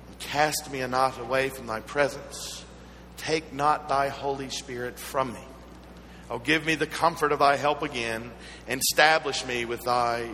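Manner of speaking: measured, deliberate prayer with pauses; psalm recitation. Acted.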